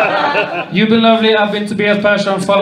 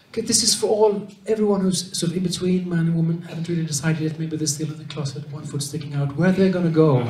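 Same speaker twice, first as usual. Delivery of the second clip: mock explainer; 2 semitones lower, 6 dB quieter than usual. Mock official explaining fourth door.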